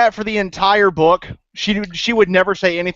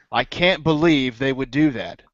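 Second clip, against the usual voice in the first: impression of Moiraine; 6 semitones lower, 4 dB quieter than usual. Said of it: "This is my impression of Moiraine".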